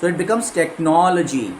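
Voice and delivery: slow, technology with no hit; stress on no. Shown as a demonstration. Teacher confirming the correct stress. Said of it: "एलओजीवाई के पहले एनओ है".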